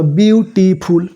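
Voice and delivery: বিউটিফুল drawn out slowly in its syllables. Shown as a demonstration. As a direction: stretch each syllable of বিউটিফুল. Teacher gives three-syllable example word.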